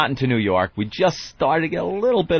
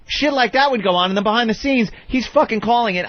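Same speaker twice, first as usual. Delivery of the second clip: angry; 10 semitones higher than usual. Real, not acted. Angry rant about Howard.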